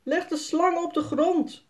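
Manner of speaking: a mock-stern call. A narrator's reading. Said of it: "roept Jaspers vader".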